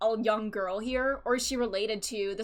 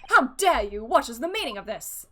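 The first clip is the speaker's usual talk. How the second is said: outraged; 5 dB louder than usual. Acted. Outraged judge.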